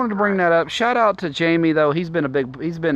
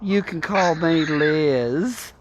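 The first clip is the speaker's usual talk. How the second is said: put-on slow voice; much slower than usual.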